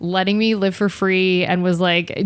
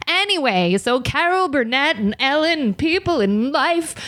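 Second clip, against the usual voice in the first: higher, breezy babble for cover; nonsense chatter; 8 semitones higher than usual. Retold or imitated. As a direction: chatter brightly to look innocent. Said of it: "And she was like".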